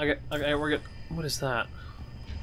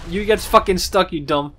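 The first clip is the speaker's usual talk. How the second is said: gloating taunt; 6 dB louder than usual. Real, not acted. Gloating at stuck enemy.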